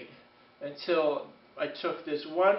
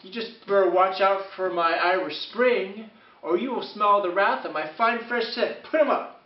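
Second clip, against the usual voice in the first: mock challenge; 2 semitones higher, 4 dB louder than usual. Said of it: "So I was like".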